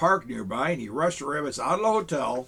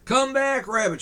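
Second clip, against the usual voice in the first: shouting; 9 semitones higher, 4 dB louder than usual. Acted. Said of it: "shouted Presto".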